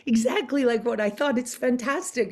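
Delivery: gasping high laugh, then breathless whispered delight; thrilled whisper. Retold or imitated. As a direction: whisper it like you've just seen her come to life. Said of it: "I was like".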